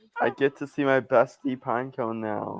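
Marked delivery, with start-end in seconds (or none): none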